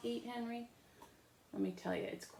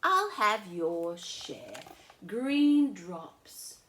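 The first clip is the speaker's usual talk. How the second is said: loud, slow teasing glee; big brother; 10 dB louder, slower than usual. Acted. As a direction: tempt her by pretending to want it. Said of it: "I said".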